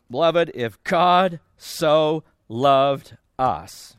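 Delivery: slow, gentle reading of the verse; gently. Shown as a demonstration. Preacher reading the verse gently to the congregation. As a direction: lay the words down tenderly and slowly. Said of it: "He says it so gently".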